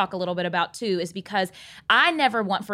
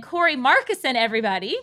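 announcer intro; 4 semitones higher than usual. Real, not acted. Host introducing Corey to the listeners, upbeat and announcing. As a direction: present the guest like a show host.

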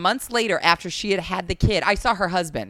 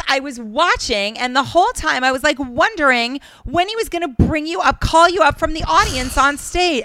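clueless interviewer; 7 semitones higher, 4 dB louder than usual. Retold or imitated. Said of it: "She goes".

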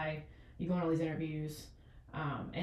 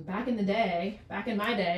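put-on old person voice; 3 semitones higher, 3 dB louder than usual. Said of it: "I sound like an old person".

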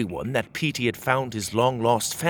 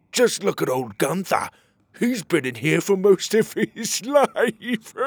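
mocking guard; 8 semitones higher, 4 dB louder than usual. Guards mocking old rabbit.

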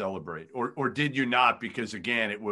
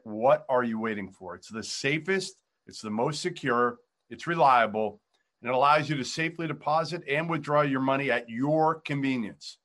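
ad read; 3 semitones higher than usual. Acted. Sponsor read mid-interview.

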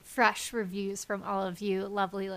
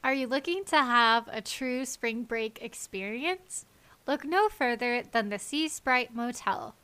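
ad read. Acted. Fake motel ad read.

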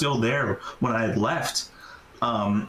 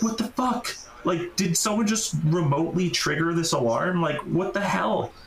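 higher, startled disbelief; 4 semitones higher than usual. Retold or imitated. Inside the church when the alarm goes off, startled disbelief. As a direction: jump at the sudden alarm.

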